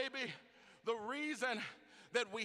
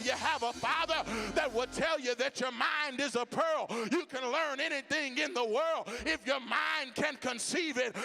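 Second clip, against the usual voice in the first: fiery preaching. Acted. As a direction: preach it out with growing fire. Preaching at full force.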